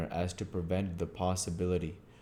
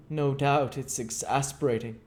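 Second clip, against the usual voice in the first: dry; 8 semitones higher than usual. Acted.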